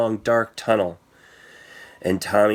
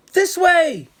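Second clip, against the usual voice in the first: high, loud urgent shout; yell; 5 dB louder than usual. Acted. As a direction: yell to lead her away from the bats. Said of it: "yelled Tommy".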